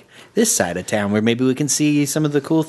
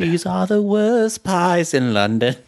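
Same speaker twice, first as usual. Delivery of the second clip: slow fake London accent; slower than usual. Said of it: "a whole show in these accents".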